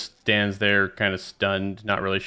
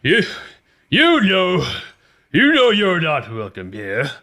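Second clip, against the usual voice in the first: higher and louder, accusing; hostile Galago; 7 semitones higher, 5 dB louder than usual. Acted. Galago to Lily, angrily telling her she's not welcome. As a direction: jab the words at her. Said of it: "he points at Lily".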